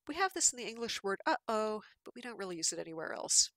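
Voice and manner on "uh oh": "uh-oh" with the breath cut off between syllables; glottal stop. Shown as a demonstration. Lecturer showing an English example, glottal stop. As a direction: close the throat briefly inside "uh-oh". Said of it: "this is called glottal stop".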